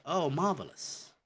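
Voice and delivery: high, swooping British "oh, marvelous"; British exclamation. Acted. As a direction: exclaim it like a delighted Brit. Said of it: "you could say".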